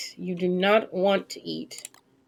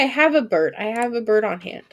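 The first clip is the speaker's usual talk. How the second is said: usual speaking voice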